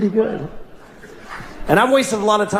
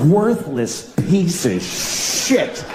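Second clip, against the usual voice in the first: slow retold insult; much slower than usual. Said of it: "what kind of way is that to feel".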